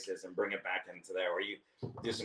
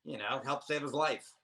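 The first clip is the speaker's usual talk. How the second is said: hammed-up eager plan; excited retold pitch; 4 semitones higher than usual. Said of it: "I said".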